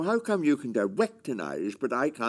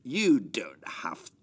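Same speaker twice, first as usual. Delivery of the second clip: menacing father, taking his time. Acted. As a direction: draw it out as a threat. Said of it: "You were very menacing".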